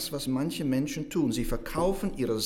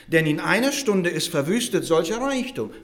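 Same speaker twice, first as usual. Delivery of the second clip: louder emphatic scripture reading; emphatic verse reading; 4 semitones higher, 5 dB louder than usual. Acted. Preacher quoting judgment verse to listeners, emphatic reading. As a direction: read the verse out as an exclamation. Reads verse ending in exclamation mark.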